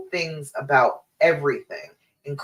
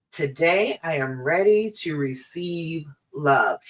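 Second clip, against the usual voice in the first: affirmation read. Shown as a demonstration. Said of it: "today's affirmation is".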